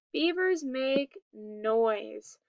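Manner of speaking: "Beavers make noise" at half speed; slow model reading. Shown as a demonstration. Teacher reading a story title to pupils, slow and deliberate. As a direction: read the title slowly, each word separate.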